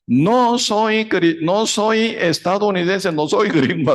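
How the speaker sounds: high, slow, drawn-out cry; desperate shout. Retold or imitated. Missionary cries out to the mob, high slow shout. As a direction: plead for your life at the top of your voice. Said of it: "Él empezó a gritar".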